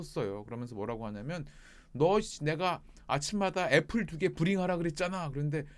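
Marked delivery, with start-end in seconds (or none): 1.9-5.3 raised, higher mock scolding; exasperated boss, moderately raised voice; imitated scolding. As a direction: imitate a boss telling off a worker. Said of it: "막 세게 부릴 때 막 혼내킬 때도".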